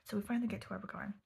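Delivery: hushed late-night whisper. Real, not acted. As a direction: whisper it all so nobody wakes.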